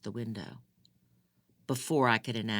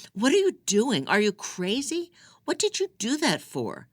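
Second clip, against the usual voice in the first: high, loud, panicked demands; shocked outcry; 11 semitones higher, 7 dB louder than usual. A narrator's reading. Girl shouts at the prisoner who choked her, panicked. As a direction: shout it out, rattled and scared.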